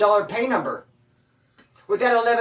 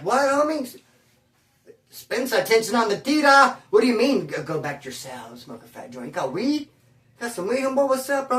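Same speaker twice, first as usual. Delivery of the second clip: higher-pitched eager pleading for weed; eager excited asking; 3 semitones higher than usual. Retold or imitated. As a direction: perk up, hungry for the weed. Narrator eagerly begging for weed.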